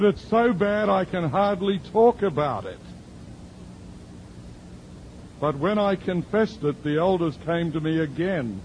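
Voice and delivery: lightly voiced church lady, earnest; voicing the woman.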